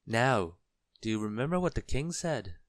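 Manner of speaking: warning. A narrator's reading. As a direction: warn them as a bossy little goblin. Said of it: "warned the goblin".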